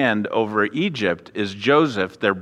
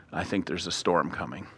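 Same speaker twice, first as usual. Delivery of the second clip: gloomy; 6 semitones lower, 11 dB quieter than usual. Retold or imitated. Gloomy Jacob.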